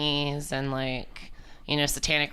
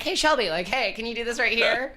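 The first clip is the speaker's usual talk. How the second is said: higher, sing-song request to a friend; sweet asking voice; 8 semitones higher than usual. Retold or imitated. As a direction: ask sweetly for a favor. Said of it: "it's like".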